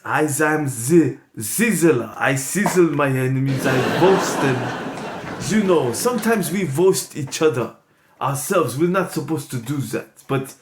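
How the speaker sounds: Sizzler voice. Acted. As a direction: growl it low like a self-declared villain. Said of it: "I pass the mic over to Mister Sizzler".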